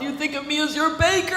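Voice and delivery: mock furious mom, lightly voiced; a touch of the raging Medusa mother. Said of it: "turned into, like, Medusa and hurled it against the wall and said".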